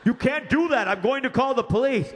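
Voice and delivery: high, strained manager threatening. Retold or imitated. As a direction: play the exasperated manager.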